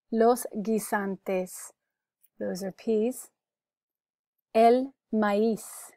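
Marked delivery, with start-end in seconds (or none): 0.1-1.7 "Los guisantes" at half pace for repeating; slow, separated "Los guisantes"; careful pronunciation model. Shown as a demonstration. Teacher repeats the word for peas, slow and careful. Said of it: "You can repeat for pronunciation". 4.5-5.9 "El maíz" with the stress on the final "íz"; accented í. Shown as a demonstration. Teacher presents the word for corn, careful stressed model. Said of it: "This has an accent over the I".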